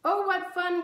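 put-on excited girl's exclamation; delighted cry. A narrator's reading. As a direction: squeal with delight at the idea. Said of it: "cried Pippi".

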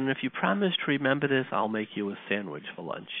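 soft, measured fatherly plea with long pauses; quietly earnest, letting each phrase settle; retold gentle reassurance. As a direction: imitate a father gently consoling his son. Father makes peace with his son.

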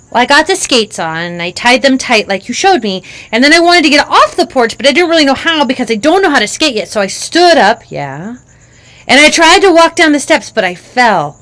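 put-on a kid breathlessly retelling; excited little girl. Child tells the fall.

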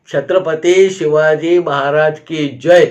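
measured storyteller's version of a slogan cry; retold rallying cry. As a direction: imitate a busload cheering, without shouting. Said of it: "अशी आरोळी जेव्हा आमच्या कानी आले".

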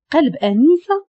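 stunned echo, pitched high and rising; shocked question. A narrator's reading. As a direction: ask it in disbelief, lifting the end. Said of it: "بانت الصدمة على وجهه وقال". (سؤال مصدوم بنبرة صاعدة)

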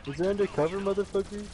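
shocked outrage. Real, not acted. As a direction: pitch jumps up, loud and incredulous. Shot at suddenly in game.

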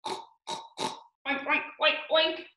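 short pretend pig oinks; snorted little oinks; pig oinking. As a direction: imitate a pig for children. Imitates a pig for guessing.

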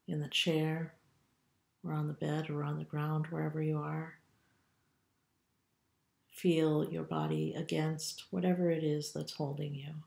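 calm, unhurried meditation guide with long pauses; guided meditation. Acted. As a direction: lead them gently through a body scan, leaving room to breathe. Leads body scan meditation.

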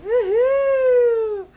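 high, loud real whoop of joy; excited cheer. Real, not acted. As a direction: let out a happy whoop, way up high. Cheering over the rhinestone stickers.

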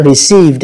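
received with a voiced "duh" at the end; final D sound. Shown as a demonstration. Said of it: "là âm đờ".

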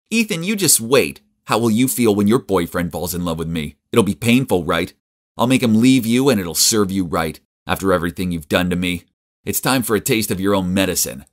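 mean tone. Acted. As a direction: sneer the threat at him. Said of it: "She was speaking in a mean tone".

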